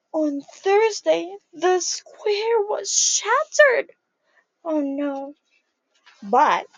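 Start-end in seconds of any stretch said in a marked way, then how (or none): 0.1-3.9 slow, hushed-then-weighty storytelling; milk the moment for the kids; slow suspenseful reading. A narrator's reading. Teacher reading to children after a gasp, slow suspense.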